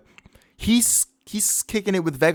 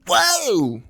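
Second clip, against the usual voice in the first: loud, high mock shock; startled onlooker; 10 semitones higher, 5 dB louder than usual. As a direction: yelp it like a startled bystander.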